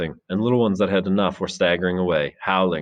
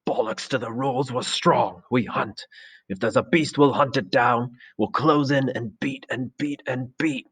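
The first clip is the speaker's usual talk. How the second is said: defiant shout; 6 semitones higher than usual. Acted. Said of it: "Jack was shouting against him".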